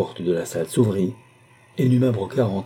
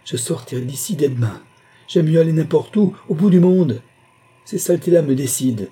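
high, loud outraged protest; beside herself; 9 semitones higher, 5 dB louder than usual. A narrator's reading. Madame Lucie vowing to leave her house, outraged. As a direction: cry out in rising indignation. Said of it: "protesta madame Lucie hors d'elle-même".

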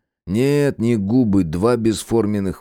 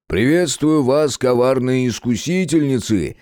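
slow, higher, grandly theatrical; bow to the ladies with mock gallantry; hammed-up greeting; 4 semitones higher than usual. Gena greets the girls.

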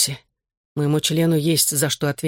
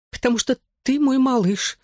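sniffling; 9 semitones higher than usual. Acted. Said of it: "шмыгнула носом мама".

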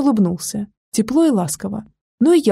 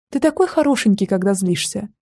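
cooing. Acted. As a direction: coo at him sweetly. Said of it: "проворковала".

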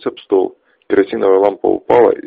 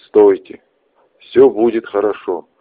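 shout; 5 dB louder than usual. Acted. Shouted plea at gunpoint.

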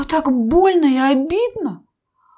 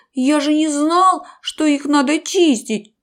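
moaning; 4 semitones higher, 4 dB louder than usual. Acted. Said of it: "простонал крокодил".

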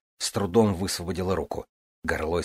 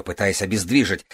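ordinary delivery

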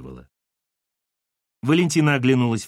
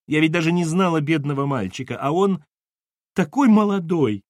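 high lament, rising and getting louder; sobbing; 5 semitones higher, 4 dB louder than usual. Acted. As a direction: wail with mounting grief. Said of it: "Тут она завсхлипывала быстрее".

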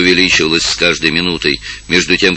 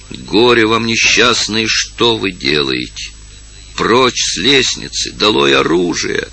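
a mild stern command, rising higher at the end; 4 semitones higher, slower than usual. Acted. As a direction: order the crowd off the stairs with authority. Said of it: "так грозно и повелительно". (грозно и повелительно)

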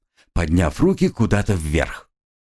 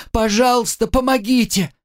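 even higher, breaking into a scream for help; shrill hysterical cry; 13 semitones higher than usual. Acted. Student screaming to the crowd, higher and hysterical. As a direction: let the panic peak. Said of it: "На истошные крики".

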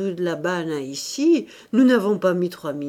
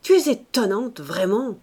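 exclaiming; 3 semitones higher than usual. Acted. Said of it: "s'écria-t-il".

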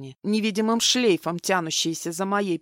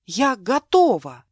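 eager plea; 3 semitones higher, 7 dB louder, slower than usual. Acted. Milena runs after Mark.

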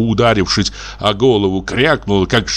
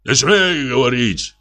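frenzied shout; 5 semitones higher than usual. A narrator's reading. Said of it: "крикнул он неистовым голосом".

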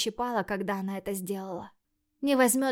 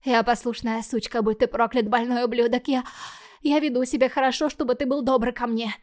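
angry outburst; 2 semitones higher, 5 dB louder than usual. Acted. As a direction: spit it out in fury. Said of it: "поспешно заговорила".

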